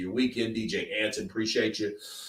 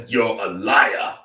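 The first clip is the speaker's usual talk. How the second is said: slow, deliberate, lightly voiced accusation; a hint of Don Charles calling him a liar; Don Charles impression; 5 dB louder, slower than usual. Streamer mimicking Don Charles accusing a boxer, slow and deliberate. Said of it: "Like Don Charles".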